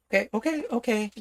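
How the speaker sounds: high startled okays. Real, not acted. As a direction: blurt out in a sudden fright. Sudden high panicked okays.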